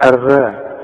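الراء with a thin, front vowel; wrong light ra. Shown as a demonstration. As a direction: show الراء wrongly thinned. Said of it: "لا يا راجل". (الراء مرققة غلط)

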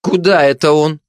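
high, puzzled questioning; baffled high-pitched gossip; bewildered. Acted. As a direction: ask in bewilderment, pitch leaping up. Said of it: "с недоумением проговорила сплетница".

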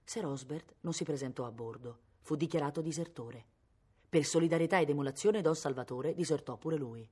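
usual speaking voice

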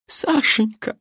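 put-on high old woman calling her husband; old lady's cry. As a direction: rush to him with her call. Старушка бросается к мужу. (старушка радостно зовёт мужа)

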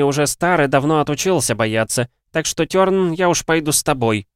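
put-on a spry, proud old alchemist. A narrator's reading. Voiced old alchemist Xarberus.

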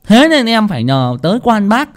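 angry ranting curse. Acted. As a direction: vent fury at the cheating landlord. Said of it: "tức chí mà chửi đồng".

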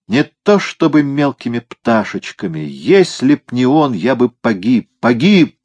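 put-on high, strained drunken rasp. A narrator's reading. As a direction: wheeze it out with maudlin drama. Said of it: "прохрипел он". (хрипло, с пьяным надрывом)

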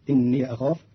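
"إني" as inniya, flowing into "أخاف"; ya with fatha. Shown as a demonstration. Teacher shows Qalun's reading, "إني" as inniya. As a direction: end "إني" on a short ya. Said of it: "بفتح الياء عند قالون فتصير".

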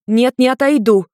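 high loud refusal; defiant refusal. A narrator's reading. Maimi refusing Ian, high and loud defiance. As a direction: refuse him fiercely. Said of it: "яростно мотнула головой".

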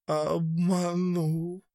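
very slow, high tearful drawl; slow hurt murmur; slow, choked. A narrator's reading. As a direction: drag it out, fighting back tears. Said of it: "медленно проговорил он".

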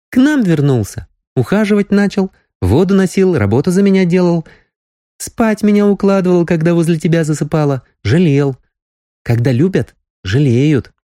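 put-on young girl, tender. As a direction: count his kindnesses fondly.

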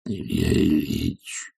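soft, slow, timid call. Acted. Servant Zakhar timidly calling his master, softly. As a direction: call out meekly from behind. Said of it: "робкий зов".

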